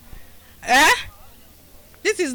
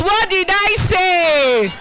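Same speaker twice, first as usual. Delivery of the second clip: slow shouted "what did I say?" with a falling end; rousing call to the crowd; 3 semitones higher, slower than usual. Shown as a demonstration. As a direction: call it out slowly to make the women answer with conviction. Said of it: "You should say it like you're convinced".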